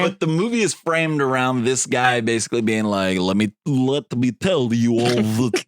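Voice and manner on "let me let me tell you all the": mock guttural Russian accent drifting Italian; lightly hammed-up Russian accent, slipping into Italian; Jon Voight. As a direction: imitate a thick, halting Russian accent. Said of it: "I like that that got Italian".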